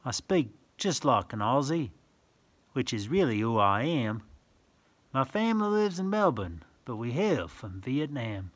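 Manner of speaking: sing-song rhyming read-aloud; reading verse to children. Acted. Reading a picture book to a child, sing-song. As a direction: lilt the rhyme for little listeners.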